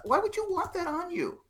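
cranky dad. Acted. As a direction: scold like a cranky teenager's dad. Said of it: "that's a cranky t-, teenager's dad".

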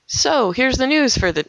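high-pitched put-on news intro; botched newsreader demo. Shown as a demonstration. Radio host trying out her small-town news read, overshot. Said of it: "well, not like that".

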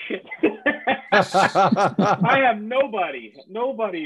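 slow, laughing dismay at having nobody; laughing despair. Real, not acted. After hanging up on the founder, laughing in dismay. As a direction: laugh it out, half panicked.

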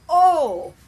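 loud shocked crowd gasp; audience gasp. Retold or imitated. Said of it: "has audience reaction to it".

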